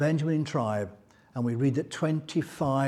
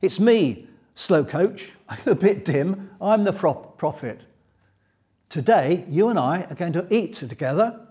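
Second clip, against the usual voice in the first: playful teasing. Retold or imitated. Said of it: "the tone of voice in verse nineteen".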